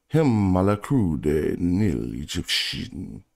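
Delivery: slow, careful French accent on a French title; tentative French accent. Shown as a demonstration. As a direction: try out a French accent without being sure of it. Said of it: "I don't know if I'm doing the right accent".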